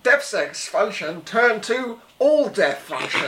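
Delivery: slow flat machine voice; robot voice. Acted. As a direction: speak like a computer processing. Robot repeats command.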